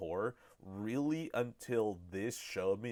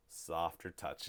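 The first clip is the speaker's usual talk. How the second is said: slow, softer, lower; softer step sound; 5 semitones lower, 5 dB quieter, slower than usual. Shown as a demonstration. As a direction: ease it down slow and quiet. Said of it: "you hear the one heel and you hear her flat foot".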